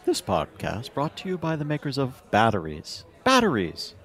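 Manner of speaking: sponsor read, announcer voice; old radio announcer. Pretend. Mock sponsor read during break.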